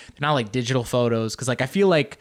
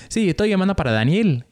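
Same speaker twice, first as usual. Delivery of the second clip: quick, lightly put-on Argentine Spanish; español argentino imitado; bad Argentine accent; 4 semitones higher, faster than usual. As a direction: imitate the planner in Spanish, badly. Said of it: "this horrific accent".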